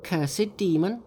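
high, slow scornful monkey; Monkey cursing. A narrator's reading. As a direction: spit out the insult. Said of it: "said Monkey".

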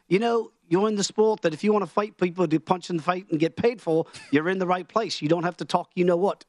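put-on amateur Australian accent, drifting towards Irish; bad Australian accent. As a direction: quote it in a shaky attempt at an Australian accent. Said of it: "I'll do my bad Australian accent".

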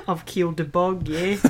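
echoing a mock Australian accent. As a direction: mimic a bad Australian accent. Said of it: "keep up with the Australian accent".

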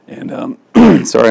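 losing her voice, raspy and breathy; raspy whisper. Real, not acted. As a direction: voice giving out mid-sentence. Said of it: "I'm losing my voice".

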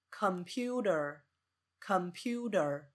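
slow "computer" as kum-PYU-ter; careful, drawn-out "computer", reduced first vowel; schwa first syllable. Shown as a demonstration. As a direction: say "computer" with a weak "com" and long stressed "pu". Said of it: "是computer".

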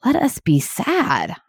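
high, slow, drawn-out inner plea; retold frustration. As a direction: voice an exasperated thought slowly. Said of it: "was frustration".

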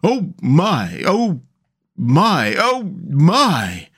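each phrase a slow swell of amazement; awed gasp. A narrator's reading. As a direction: overcome with wonder, swooping up and down. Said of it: "and gasp".

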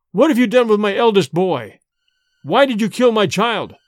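loud, high raging accusation; grief-stricken fury, loudly acted; accusing outcry. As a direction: hurl it at the corpse-father. Son accuses vampire father.

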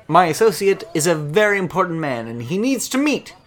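high, loud, pompous little man; pompous high voice, dragging out the last words; small man's voice. Acted. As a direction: insist grandly, slowing at the end.

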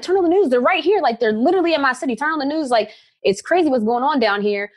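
pleading with her parents to look; urgent nervous plea. Retold or imitated. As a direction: daughter urging her parents to turn on the news, anxious and high. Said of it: "nervous energy in my voice".

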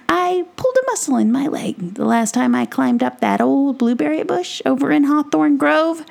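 high, excitable little gnome voice; excitable Brisbane. Acted. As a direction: squeak it out like an eager tiny adventurer. Brisbane asks a favor.

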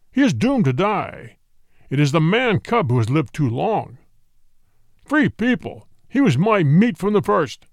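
lightly voiced tiger, menacing; roaring tiger. A narrator's reading. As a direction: growl it out as a proud tiger. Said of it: "Then Shere Khan roared".

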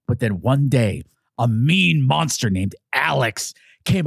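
slow, swooping storybook reader; fairy-tale narration. Acted. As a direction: read it like a bedtime tale, drawing out key words. Storybook narration opens the show.

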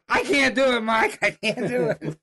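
high, loud mock wail; imitated panic. The speaker to Mike up the tree, mock panicking. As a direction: imitate someone balking in a panic.

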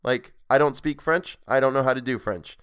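embarrassed reader apologizing for his French; flustered outburst. Real, not acted. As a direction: blurt out apologies in a rush. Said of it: "laughing apology for bad French".

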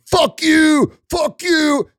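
put-on high, loud childish yelling; shrill protester yelling; mock screaming protester. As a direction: imitate a tantrum. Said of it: "screaming in your fucking faces saying".

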